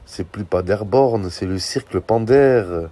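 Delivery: slow and loud, laughing through it; laughing mockery. Real, not acted. Mocking the team for his viewers, laughing loudly. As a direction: drag it out while cracking up.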